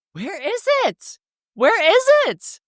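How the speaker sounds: very high, slow pleading; worn-out hikers pleading for the way down; desperate whine. Retold or imitated. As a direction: wail it out, exhausted. Desperate search for the exit.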